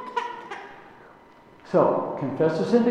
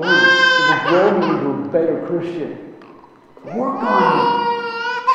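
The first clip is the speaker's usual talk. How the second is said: tearful prayer; 6 dB louder than usual. Real, not acted. Asking God to change his heart, tearful. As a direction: voice breaking with tears, pleading. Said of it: "praying with emotion".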